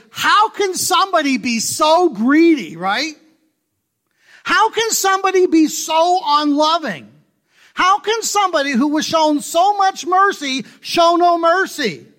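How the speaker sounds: high, loud preacher's outrage; full-force sermon cry; impassioned preaching. Acted. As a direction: hammer each question at the congregation.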